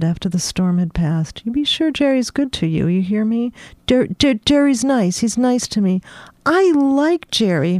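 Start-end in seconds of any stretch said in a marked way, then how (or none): 1.4-6.0 higher, lightly voiced motherly caution; a hint of a caring housekeeper; Russia, motherly warning. 6.5-7.8 higher, slow and deliberate; I like Jerry said high and measured; pronounced. Acted. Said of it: "Madeline pronounced".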